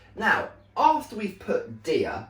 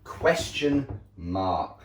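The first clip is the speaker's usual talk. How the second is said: slow emphasis; 4 semitones lower, much slower than usual. Shown as a demonstration. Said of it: "What goes at the end".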